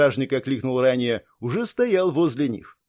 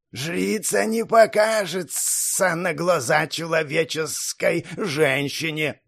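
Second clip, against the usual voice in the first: guard voice; 3 semitones higher, slower than usual. Acted. Guard continues.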